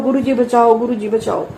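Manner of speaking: पुकार जो धीरे-धीरे धीमी पड़ती है; दोहराती पुकार, अंत में थकी हुई; fading cry for help. Retold or imitated. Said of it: "गुरु जी ने पूरी आवाज निकलवाई". (गुरु जी को पुकारते हुए आवाज़ का बैठ जाना)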